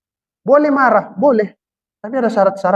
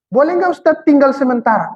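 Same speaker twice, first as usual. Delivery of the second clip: suara penanya; 6 semitones higher than usual. Retold or imitated. Jamaah bertanya kepada ustadz.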